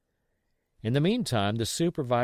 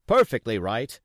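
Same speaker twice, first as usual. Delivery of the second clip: cheerily; 6 dB louder than usual. A narrator's reading. Dance repeating his approval to Jim, cheery. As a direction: agree warmly again. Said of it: "very cheerily".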